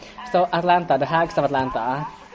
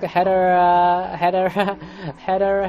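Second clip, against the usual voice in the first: giggly build-up; 4 semitones higher than usual. Real, not acted. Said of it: "here comes a good joke".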